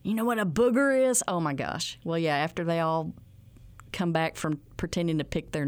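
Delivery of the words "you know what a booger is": put-on teacher asking kids. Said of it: "program for kids".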